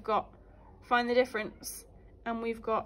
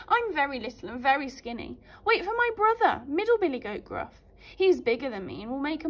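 little goat; 3 semitones higher, 3 dB louder than usual. Acted.

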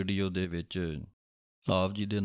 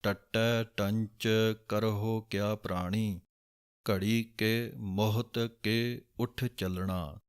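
slow, careful Gurbani line reading; slow recitation; slower than usual. Shown as a demonstration. Teacher reciting a scripture line slowly. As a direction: recite each word slowly and clearly. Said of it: "ਇਸੇ ਤਰ੍ਹਾਂ ਹੀ ਬੋਲਣਾ ਹੈ".

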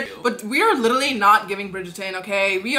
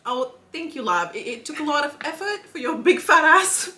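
prim mock-British accent; 3 semitones higher than usual. Host thanking guest with a jab, put-on British accent. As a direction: insult politely in a British accent. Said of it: "end this in a very nice note in a British accent".

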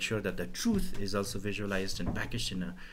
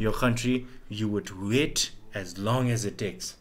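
mock lecturing. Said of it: "what people are gonna say".

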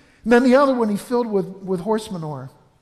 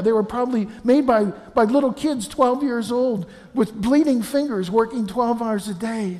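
put-on whiny complaining boy; 3 semitones higher than usual. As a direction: list the complaints like a sulky child. Pessimist boy complains about gifts.

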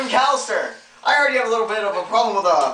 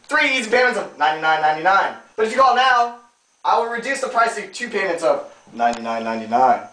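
low TV pitchman voice; home shopping host; 5 semitones lower than usual. Pretend. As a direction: sell it like a TV deal. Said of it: "home shopping pitch".

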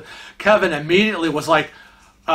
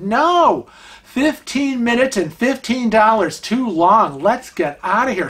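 emphatic insistence; 5 semitones higher than usual. Retold or imitated. Insisting on leaving market.

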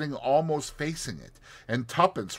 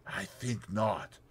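cool refusal; 7 dB quieter, slower than usual. Acted. Rita refuses coolly.

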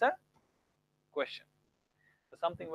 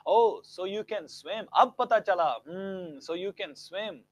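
mild surprise; 3 dB louder, slower than usual. Shown as a demonstration. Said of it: "he proves that he can swim".

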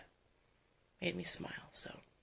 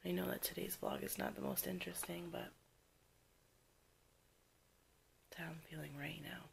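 after crying; 4 dB quieter than usual. Real, not acted. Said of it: "being raw".

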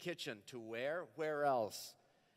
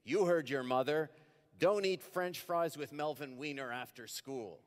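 father's warning; 2 semitones higher, 4 dB louder than usual. Acted. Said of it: "He says to me".

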